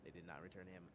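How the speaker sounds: flat robot monotone. Acted. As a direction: say it like a machine. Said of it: "correcting yourself into the robot voice".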